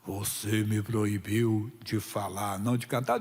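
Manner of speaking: low, slow, warped mocking demon; distorted demon voice. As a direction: drag it out deep and twisted like a taunting demon. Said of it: "com a voz distorceu assim".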